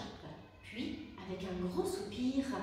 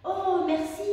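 grateful otter; 7 semitones higher, 7 dB louder than usual. A narrator's reading. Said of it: "répondit Léa".

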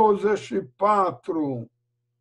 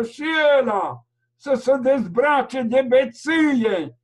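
rising preacher's call, pressing on each sin; fervent preaching. Acted. Preacher urging sinners to repent, fervent. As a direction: plead with the flock to turn from drink and sin.

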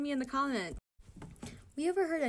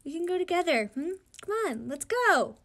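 eager, raised voice calling him along; loud call to a friend; 6 semitones higher, 7 dB louder than usual. Acted. A teammate calls his friend along, loud and eager. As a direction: urge him to come, loudly. Reading a comic character aloud.

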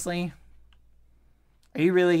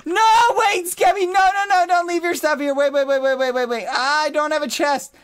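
high, loud pleading shouts; frantic calling; 8 semitones higher, 5 dB louder than usual. Real, not acted. Calling Skibby back before he leaves, high frantic shouts. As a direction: yell after him to stop. Friend walking off with stuff.

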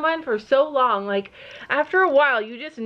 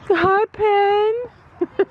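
bright high call, a bit louder; calling to horse; 9 semitones higher, 5 dB louder than usual. Real, not acted. Owner greeting her horse Penny with a high, louder call. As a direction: sing out a hello to the mare.

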